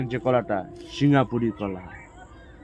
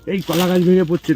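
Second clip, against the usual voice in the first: surprised; 5 semitones higher, 6 dB louder than usual. Real, not acted. Banana tree suddenly falling.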